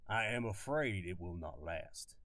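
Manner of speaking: Southern colonel drawling his warning; southern accent. Acted. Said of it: "This is my southern kinda accent".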